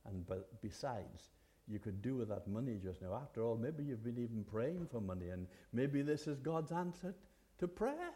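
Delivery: a hint of a sly tempter talking you round; tempting voice. Inner voice tempting a finder to keep the purse, softly coaxing. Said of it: "a voice might say".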